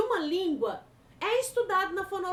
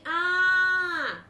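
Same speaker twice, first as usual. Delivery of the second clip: a louder, changed-timbre "Ah." exclamation; expressive interjection; 5 dB louder than usual. Shown as a demonstration. Teacher showing an Ah in conversation, exclaimed. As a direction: blurt "Ah." as if mid-conversation. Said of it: "eu posso tá numa conversa e falar assim".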